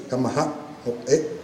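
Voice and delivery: "kamaha o e" slowly, cut with glottal catches; glottal stops. Shown as a demonstration. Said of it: "los saltillos glotales".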